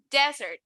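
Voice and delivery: desert weighted on DE, falling; stress on first syllable. Shown as a demonstration. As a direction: lean on the DE of desert. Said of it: "el énfasis está en la primera sílaba".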